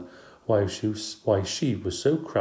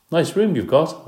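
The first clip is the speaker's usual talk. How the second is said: high, bright little guinea pig squeak; polite squeak; 9 semitones higher, 7 dB louder than usual. A narrator's reading. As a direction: squeak it politely as a small pet. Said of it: "I squeaked politely".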